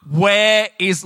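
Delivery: retold scream. Child searching the beach for a stress ball, retold scream. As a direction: start a half-scream, then break off. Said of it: "I'm screaming at the top of my lungs".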